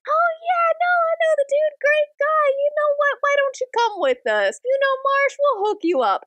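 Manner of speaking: very high, eager buddy voice; gushing, chummy general. Retold or imitated. General welcoming William along, gushing and chummy. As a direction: gush like an instant best friend.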